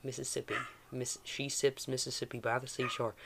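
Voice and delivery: practice Mississippi southern accent; nice Mississippi accent. Shown as a demonstration. Game master tuning a character's voice, Mississippi accent. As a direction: warm up the Mississippi accent on a tongue-twister. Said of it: "more like a nice".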